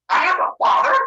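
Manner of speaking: high, loud incredulous outburst; acted astonishment. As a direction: blurt it out high, stunned. Zeus learns he has father.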